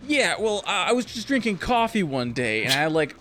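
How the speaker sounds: mocking voice actor. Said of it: "And he was like".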